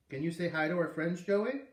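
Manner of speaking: put-on high sing-song for a little boy; coaxing teacher voice. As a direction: gently urge a shy child to say hi. Teacher coaxes child.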